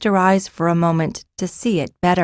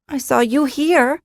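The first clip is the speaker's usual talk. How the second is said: slightly defensive; 8 semitones higher than usual. A narrator's reading. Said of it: "in a slightly defensive tone".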